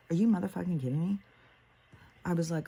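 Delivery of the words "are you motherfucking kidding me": higher, faster disbelieving demand; escalated incredulity. Retold or imitated. Mother reacts to daughter's Tijuana trip, more incredulous. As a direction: hit motherfucking higher and rush the question.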